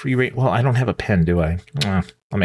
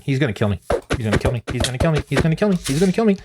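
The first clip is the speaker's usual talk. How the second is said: rising panic; 2 semitones higher, much faster than usual. Real, not acted. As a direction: panic building as the Enderman closes in. Repeated panic as Enderman attacks.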